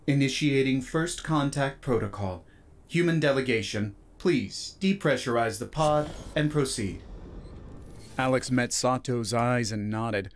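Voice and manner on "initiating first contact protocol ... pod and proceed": even synthetic station announcement; AI announcer voice. Acted. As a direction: announce it like a ship's computer. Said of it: "the chamber's A I announced".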